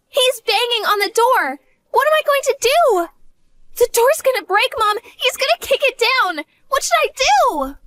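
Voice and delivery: scared stiff, asking what to do; panic. Acted. Daughter tells mom the door's about to break, frantic. Father banging on the door.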